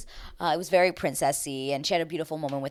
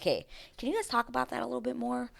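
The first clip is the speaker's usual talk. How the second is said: higher, fast mock producer ask; 7 semitones higher, 6 dB quieter, faster than usual. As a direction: imitate a pushy producer. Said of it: "the producers were like".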